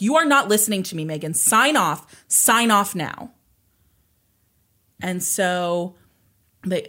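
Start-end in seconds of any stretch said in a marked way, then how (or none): 0.0-3.3 retold angry mom, louder and higher; firm, raised voice with a slowed final order; losing it. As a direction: imitate a mother losing her temper, emphatic. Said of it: "Tina loses it. And she's like".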